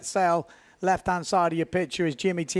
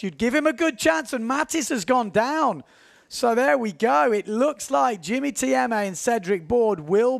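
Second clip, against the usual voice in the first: rising, louder play-by-play; excited commentary; 5 semitones higher, 3 dB louder than usual. Real, not acted. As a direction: call the crash with building energy. Live commentary climax.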